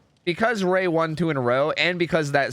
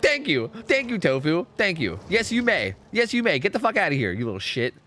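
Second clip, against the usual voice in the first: higher-pitched sarcastic imitation of a teacher; mock teacher; 6 semitones higher than usual. Teacher finally lets pupil go, mocking high-pitched dismissal. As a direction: grant permission with pointed, pitched-up mock thanks. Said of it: "And you were like".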